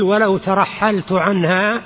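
ترحلت read slowly as tarahhaltu; careful slow reading, u sounded at the end of ترحلت; vowelled ترحلت. Shown as a demonstration. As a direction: dictate ترحلت at a slow pace with final -tu. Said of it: "أو اضبطها بالشكل".

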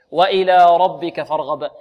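recitation demo. Shown as a demonstration. Teacher recites next verse.

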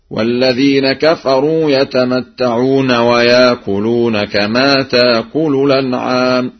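chanted, "ويأكلون" as yaakuloon without hamza; hamza replaced by vowel. Shown as a demonstration. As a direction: recite "تأكل" as taakulu, a long aa. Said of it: "أن ورشا يبدل الهمز الساكنة".

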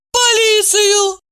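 loud, slow scornful cry; scornful shout. A narrator's reading. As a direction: throw the word back loudly. Ева возмущённо переспрашивает. (громкий медленный возмущённый возглас)

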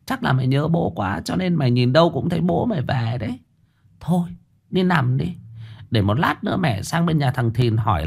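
mother telling son to go rest, not to fear; consoling mother. Acted. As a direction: soothe a scared son with rough tenderness.

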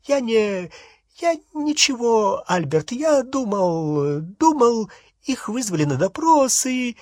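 high-pitched, halting stammer; frightened babble. A narrator's reading. Balding wizard excuses himself to Albert, frightened babble. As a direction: falter and repeat yourself, voice pushed high. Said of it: "пролепетал".

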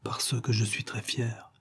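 slow, very soft confession. Acted. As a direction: drop the voice right down, slowly. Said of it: "elle baissa la voix".

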